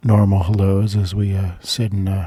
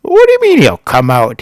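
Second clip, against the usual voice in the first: higher, louder mock indignation; imitating an argumentative comeback; antagonizing; 4 semitones higher, 5 dB louder than usual. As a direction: challenge it in retold disbelief. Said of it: "starts antagonizing me".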